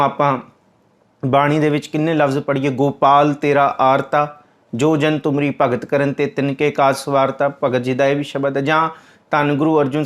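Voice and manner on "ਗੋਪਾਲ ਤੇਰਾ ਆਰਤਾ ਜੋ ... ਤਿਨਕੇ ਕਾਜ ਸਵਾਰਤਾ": scripture recitation. Acted. Recites a hymn line.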